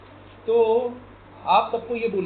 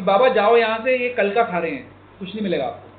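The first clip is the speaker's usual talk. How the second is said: calling out loudly; 4 dB louder than usual. Retold or imitated. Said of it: "जोर से आवाज़ लगा के बोला".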